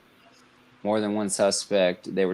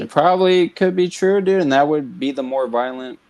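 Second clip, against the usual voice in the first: jumping in higher and louder; excited agreement; 7 semitones higher, 5 dB louder than usual. Real, not acted. Co-host backing the cashier's story, excited and loud. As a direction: burst in, sure you're onto something.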